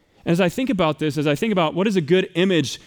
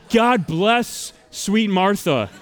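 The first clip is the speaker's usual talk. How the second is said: laughing; 2 semitones higher, much slower than usual. Real, not acted. Gushing about cookies.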